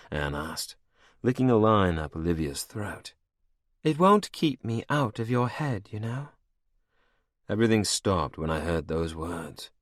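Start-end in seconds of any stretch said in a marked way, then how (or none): 3.8-6.3 high, cold and mocking; higher, menacing royal voice; villainess queen. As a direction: purr it over your captive like a cruel queen. Anne taunts Olivia.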